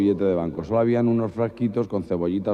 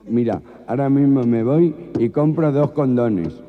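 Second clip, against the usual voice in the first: higher, louder, slow outburst; exasperated gangoso; 5 semitones higher, 6 dB louder than usual. Acted. Boyfriend finally giving in to his girlfriend, comic outburst. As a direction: blurt it out in frustration. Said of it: "el gangoso ya de tan nervioso".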